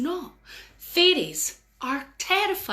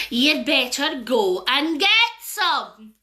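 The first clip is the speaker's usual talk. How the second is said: menacing fairy; much slower than usual. Acted. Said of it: "said the fairies".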